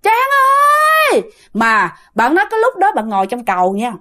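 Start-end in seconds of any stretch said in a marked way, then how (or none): 0.0-1.2 high, short, piercing call of the name; shrill short ghost call. Retold or imitated. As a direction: snap the name out sharp and shrill. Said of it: "nó không dài nữa mà nó lại lanh lảnh". (tiếng ma gọi ngắn, cao và lanh lảnh)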